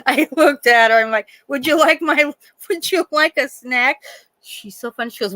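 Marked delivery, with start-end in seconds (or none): 1.5-4.0 higher, mock-polite offer with a rising ask; sugary mock courtesy, needling her; sarcastic sweet offer. Nurse to the patient in her chair, mock-sweet and higher.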